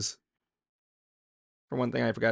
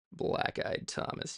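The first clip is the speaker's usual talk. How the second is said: whispered repeat; 7 dB quieter, slower than usual. Shown as a demonstration.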